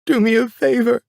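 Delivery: high, loud, hitting "do" hard; furious scream. Retold or imitated. Mother daring father to shoot, high furious scream. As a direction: bite into "do" as a dare. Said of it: "she said".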